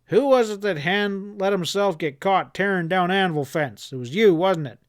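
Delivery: snarling. Acted. Boss snarling accusations before he shoots, furious. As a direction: spit the accusation at him. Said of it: "Chad snarled".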